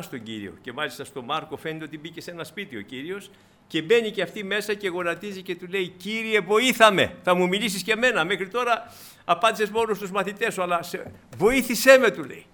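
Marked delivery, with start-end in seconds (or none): 5.9-12.1 pleading. Acted. Kneeling woman begs the Lord.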